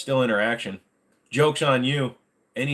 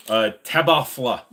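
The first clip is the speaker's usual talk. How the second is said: alphabet backwards; 3 semitones higher, 7 dB louder than usual. Shown as a demonstration. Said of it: "Can I say alphabet backwards".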